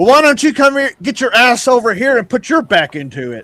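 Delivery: very high-pitched hollered yell. Game master as the cleric answering a player who yelled from the other room, yelling back. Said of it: "The cleric yells back and says".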